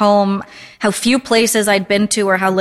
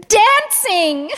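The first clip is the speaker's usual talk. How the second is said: high, thrilled exclamation; excited suggestion; 12 semitones higher than usual. A narrator's reading. Mother presses hands together proposing dancing, excited. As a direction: burst out with delight, pitched way up.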